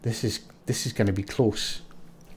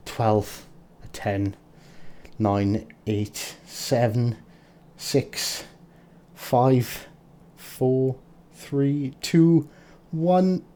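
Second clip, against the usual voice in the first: tense countdown; 2 semitones higher, much slower than usual. Real, not acted. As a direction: count down, rising to a cry. Counting down final seconds.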